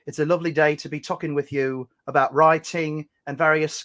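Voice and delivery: lightly put-on British accent. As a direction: play at British politeness, taking your time. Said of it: "we can be British or Australian".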